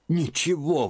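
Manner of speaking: high, sharp exclamation; exclaiming old aunt. A narrator's reading. Aunt throwing Liza's word back at her, high. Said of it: "воскликнула Марфа Тимофеевна".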